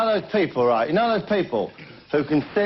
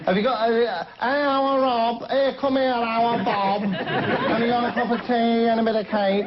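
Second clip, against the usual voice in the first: high, rough northern mock voice, pitched up; the speaker's put-on voice; 8 semitones higher, slower than usual. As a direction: ham up a common northern woman asking for tea. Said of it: "Stella, you don't talk like that".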